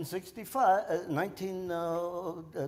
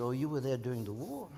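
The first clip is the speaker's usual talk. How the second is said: usual speaking voice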